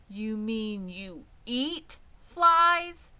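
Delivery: slow, loud, shocked question; shocked gasp. Acted. Wilbur gasps at the spider's diet. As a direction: gasp it out in disbelief. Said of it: "gasped Wilbur".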